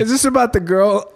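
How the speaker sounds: laughing while teasing. Real, not acted. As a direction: tease through a laugh.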